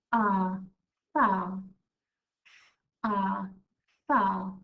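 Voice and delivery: loud stretched ah, then far; sounding out far. Shown as a demonstration. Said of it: "First word I like to write is".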